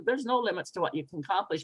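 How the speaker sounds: fast, toneless rattle; quick throwaway line; uninspiring. Shown as a demonstration. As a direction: say it fast without meaning it. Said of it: "I could just say it as".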